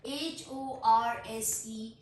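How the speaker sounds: slow letter-by-letter spelling. Shown as a demonstration. Teacher spelling a word for learners, slow spelling. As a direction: spell it out, a small gap after each letter. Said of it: "letter spell करती हूँ".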